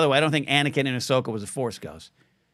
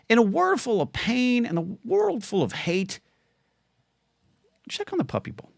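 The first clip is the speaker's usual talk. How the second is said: mock trailer voice; 8 semitones higher than usual. Mock dramatic Puppy Bowl plea.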